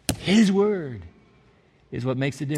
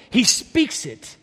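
slow refrain; 2 semitones higher, much slower than usual. Acted.

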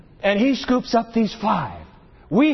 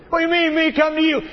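incredulous giant; 9 semitones higher, 3 dB louder, much faster than usual. Acted. Goliath's incredulous retort voiced.

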